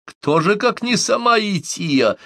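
high, slow, singsong answer; amused reply. A narrator's reading. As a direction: tease with stretched, soaring words. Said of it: "от смеха у неё на глазах". (весело, нараспев)

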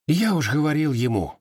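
ordinary delivery

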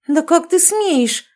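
high, loud, slow outrage; high indignant outrage; outraged. A narrator's reading. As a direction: choke on indignation. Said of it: "от возмущения чуть не задохнулась".

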